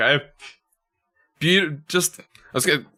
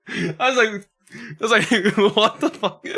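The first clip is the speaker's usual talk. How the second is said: laughing; 8 semitones higher than usual. Real, not acted. Laughing at retold mix-up.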